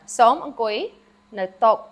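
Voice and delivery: "Som angkoi no to" said carefully and clearly; corrected model sentence. Shown as a demonstration. Teacher corrects herself and repeats the Khmer sentence. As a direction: restate the sentence properly. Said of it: "Sorry, I said that wrong".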